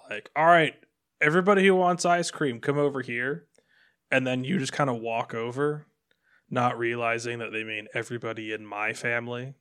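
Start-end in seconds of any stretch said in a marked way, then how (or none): 0.3-3.5 louder, higher mock yell, easing off at the end; mom calling out. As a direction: imitate a mom rounding up the kids. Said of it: "somebody else's mom yells out".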